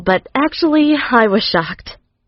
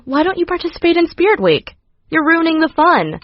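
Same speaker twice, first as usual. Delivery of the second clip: higher, sing-song teacher voice; a teacher needling a student he dislikes, in a higher voice; mocking teacher; 7 semitones higher than usual. Mister Snape teasing Patricia, in a sing-song mocking voice.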